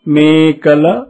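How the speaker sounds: teacher drawing out మేకల మంద; slow model reading. Shown as a demonstration. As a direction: read syllable by syllable for the class. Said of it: "ఇప్పుడు చదవండి".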